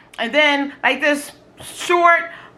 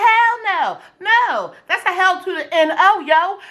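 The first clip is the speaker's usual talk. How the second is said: sassy refusal; 5 semitones higher than usual. Retold or imitated. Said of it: "So I was like".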